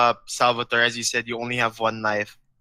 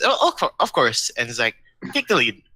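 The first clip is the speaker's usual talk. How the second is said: put-on childish voice. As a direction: bounce back to a kid's tone. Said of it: "back to his old, childish demeanor".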